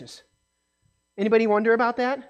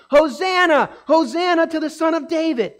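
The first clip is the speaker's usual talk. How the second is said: mock shout; 4 semitones higher than usual. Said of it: "And they are shouting".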